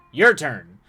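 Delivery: loud, pointed demand; loud challenge. Acted. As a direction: throw down the challenge.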